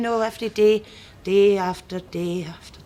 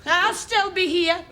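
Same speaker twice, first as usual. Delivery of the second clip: creepy high voice; 9 semitones higher than usual. Acted. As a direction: lean in and spook her sweetly. Shopkeeper turns eerie, high.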